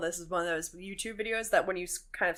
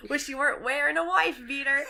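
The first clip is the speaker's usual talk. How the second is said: laughing; 6 semitones higher than usual. Real, not acted. Laughing teasing.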